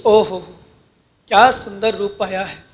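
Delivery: soft, low marvelling; quietly marvel, keeping it low; understated acted wonder; hushed admiration. Acted admiring onlooker, pious view.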